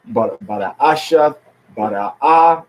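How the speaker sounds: "Bada Ashiath" with stress on ASH; "Bada Ah" landing firmly on AH; syllable stress demo. Shown as a demonstration. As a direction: show where the stress falls in "Bada Ashiath" and "Bada Ah". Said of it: "On the next to the last syllable".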